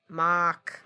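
put-on borrowed accent, "Mark" said as "Mahk"; imitating producer's accent. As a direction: echo the accented "Mark" without its r. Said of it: "You say my name like that".

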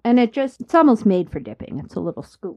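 talking through a mouthful of chips; mouth full. Real, not acted. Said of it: "I'm talking with chips in my mouth".

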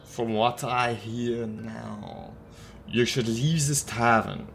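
lightly voiced German-accented warning, deliberate pauses; a hint of a stern old crank; stern German drinker. A narrator's reading. Old crank warns the wounded man to leave, measured and stern.

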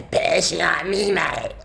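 put-on Liverpool accent with throaty consonants. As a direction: do a cartoonish Liverpudlian, chatty and exaggerated. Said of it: "That is a Liverpool accent".

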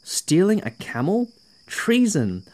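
guard catching Piram stealing the camel, outraged. A narrator's reading.

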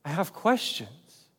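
soft, hesitant honest admission; humble, sincere. Acted. Humble Thomas admitting his questions, soft and sincere. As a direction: own up to it softly and humbly. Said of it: "sincere kind of questions".

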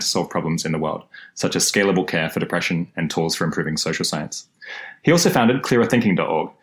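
recorded on the wrong microphone; wrong microphone sound. Real, not acted. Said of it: "I was recording on the wrong microphone".

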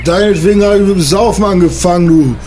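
angry son. Acted. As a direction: hurl the insults up high and sharp.

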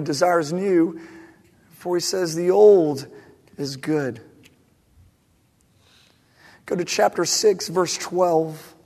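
measured, emphatic Bible reading; scripture reading. Acted. Reads the scripture passage aloud.

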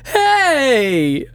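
put-on very high, hurt child ghost; ghost boy Jimmy. Ghost Jimmy asks the wizard why he left, very high and hurt. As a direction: whine it like a sad little ghost boy. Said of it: "Jimmy's head dips ... he says".

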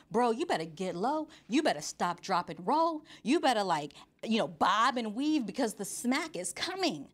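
lively mock-urgent warning to a buddy; alarmed warning. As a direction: warn a pal with rising emphasis. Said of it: "I'm reading this like".

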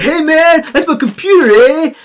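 high, loud surfer-dude DJ; laid-back DJ voice. Acted. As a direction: play the cool DJ shrugging it off. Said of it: "and dude's like".

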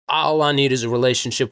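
lightly mock a Southern believer in a Southern accent. Caricaturing a go-it-alone Christian, in a light Southern accent. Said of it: "I'm in a Southern accent".

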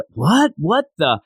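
stunned reader blurting it out; baffled reaction. Acted. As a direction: act out a baffled double take.

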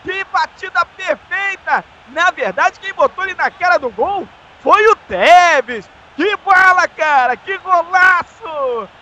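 slow, savoring goal reaction; goal celebration. Real, not acted. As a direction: relish the goal, drawn out.

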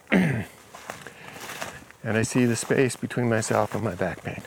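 each word stretched slowly, fading at the end; slow, drawn out. Retold or imitated. Client repeating the phrase slowly for the healer, slow and fading.

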